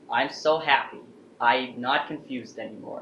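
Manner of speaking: mildly gleeful retelling, punched opening; retold happiness. Grandpa tells mom he is no longer confused, retold happily. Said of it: "never seen him so happy before".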